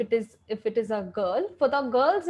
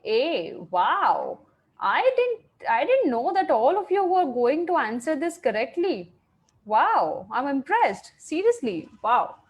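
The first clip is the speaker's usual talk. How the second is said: impressed surprise. Real, not acted. Students all answer correctly.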